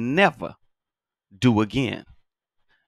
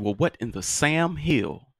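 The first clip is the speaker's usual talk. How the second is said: put-on old-school scolding; 5 semitones higher, slower than usual. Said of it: "that's old school".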